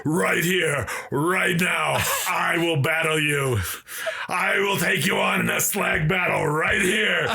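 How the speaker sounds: a hint of a Viking with an Irish brogue; mock Irish brogue battle challenge. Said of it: "he's got an Irish brogue".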